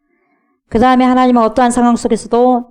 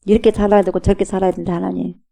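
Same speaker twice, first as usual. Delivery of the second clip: ordinary delivery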